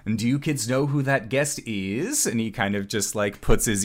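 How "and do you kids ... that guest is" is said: lightly voiced showman, coaxing question; camp manager teasing crowd. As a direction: dangle the question before the kids.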